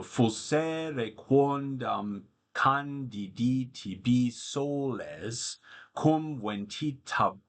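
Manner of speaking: slow, measured Latin verse reading; poetry recitation. Acted. Tutor reads Catullus aloud to students, slow recital.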